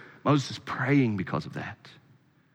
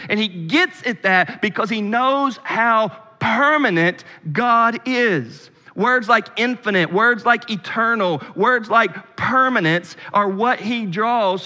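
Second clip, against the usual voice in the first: raised, emphatic sermon voice; fervent preaching; 8 semitones higher, 3 dB louder than usual. Real, not acted. Preacher reading Moses' prayer to the congregation, fervent preaching. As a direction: preach it out, drawing out key words.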